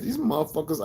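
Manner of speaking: high-pitched mock disbelief; retold incredulous reaction. Speaker recalls his thoughts about the group, high and incredulous. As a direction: pitch it up, as if baffled by them.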